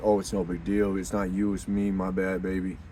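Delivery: hint of smooth reassurance to the girl; playing it cool. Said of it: "I played it like".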